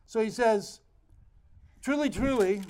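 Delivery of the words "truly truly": Truly, truly said with mild extra weight; emphatic repeat. Shown as a demonstration. Pastor quoting Jesus to the church, lightly emphatic. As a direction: lean a little into Truly, truly. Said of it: "to be emphatic".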